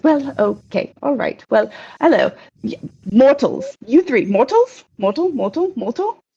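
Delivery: lightly voiced fussy spider, puzzled; falter, then query each one in turn; flustered spider messenger. Spider page greeting three mortals, flustered and questioning.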